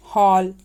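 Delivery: हॉल with an open rounded vowel, neither ओ nor औ; open English "aw". Shown as a demonstration. Teacher shows borrowed English sound, हॉल with open "aw". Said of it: "उच्चारण अ होगा, न ओ न औ".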